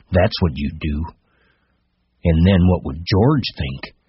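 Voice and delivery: deliberate, contemptuous rabbit; scornful. Acted. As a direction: sneer at him, unhurried. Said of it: "it said scornfully".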